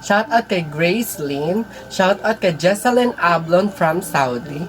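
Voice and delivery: slow, lilting list reading; shout-out roll call. Real, not acted. Vlogger reads viewers' names, slow sing-song roll call. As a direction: draw out each name with a swinging tune.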